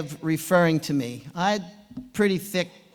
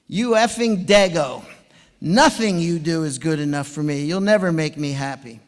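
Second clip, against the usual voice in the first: barked insult, louder and gruff; mock coach yell; 6 dB louder than usual. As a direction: yell it like a tough old swim coach berating his swimmer. Coach yelling insult after set.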